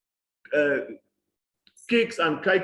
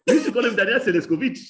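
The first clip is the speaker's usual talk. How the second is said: laughing; 5 semitones higher, 5 dB louder, faster than usual. Real, not acted. Fond memory of old teacher.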